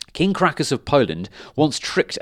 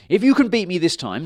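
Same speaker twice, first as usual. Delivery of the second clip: higher, louder dragon voice; a raised eager dragon pleading; 8 semitones higher, 6 dB louder, faster than usual. A narrator's reading. Dragon offering Stan half his treasure.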